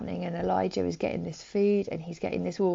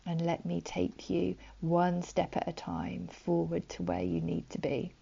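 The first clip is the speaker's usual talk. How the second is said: soft comfort; 4 dB quieter than usual. Acted. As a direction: lull them into calm. God's comforting words in prayer.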